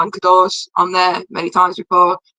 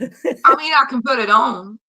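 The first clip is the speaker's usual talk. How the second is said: put-on Southern accent, pitched up; 5 semitones higher, slower than usual. Showing the co-host they can put it on, Southern accent. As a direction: lay on a playful Southern accent. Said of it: "You could probably put a Southern accent on".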